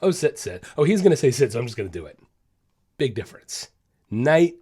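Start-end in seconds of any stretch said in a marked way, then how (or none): 0.0-2.2 lightly voiced bored dog on autopilot. Dog voiced by trainer, mildly bored and mechanical. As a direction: rattle it off like a dog on routine. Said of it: "Versus just".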